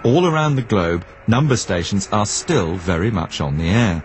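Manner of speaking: scripted radio presenter's read with swooping intonation; measured narration, phrases falling away at the ends; documentary narration. A narrator's reading. Presenter introduces number stations to listeners, scripted documentary narration.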